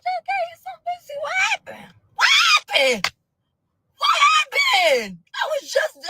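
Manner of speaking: hammed-up high-pitched sobbing shout of disbelief; mock crying wail. Retelling her shock after he hung up, mock crying wail.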